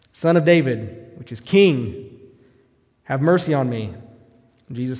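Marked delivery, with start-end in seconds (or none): 0.1-1.1 a loud, slow "Son of David"; shouted plea. Retold or imitated. Bartimaeus shouting past the crowd, loud and slow. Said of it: "he shouted all the more". 3.0-3.9 shouted plea. Retold or imitated. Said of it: "he shouted all the more".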